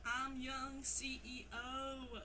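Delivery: put-on slow southern accent. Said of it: "Read the song lyrics in your southern accent".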